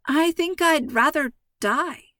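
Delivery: moaned. A narrator's reading. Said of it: "London moaned".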